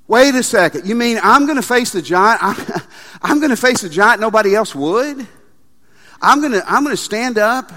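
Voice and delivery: loud, incredulous questions; mock disbelieving listener. Pastor voicing a doubter in the congregation, incredulous. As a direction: voice a stunned listener who can't believe it.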